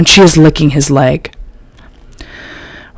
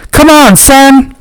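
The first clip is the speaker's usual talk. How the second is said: slow, very high drawn-out yell; 10 semitones higher than usual. A narrator's reading. Jerome willing his dog on, slow high yell. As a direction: stretch out the cheer to your dog. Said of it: "Jerome yells".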